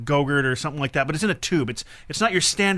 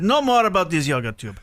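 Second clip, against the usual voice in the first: put-on Russian accent, final word on it. Dad ending his grocery store act, Russian accent. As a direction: close the matter in a Russian accent. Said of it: "in a Russian accent".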